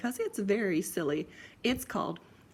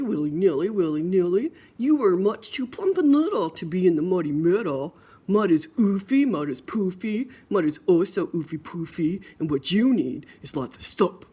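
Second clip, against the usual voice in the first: brother's mock scolding; 5 dB louder than usual.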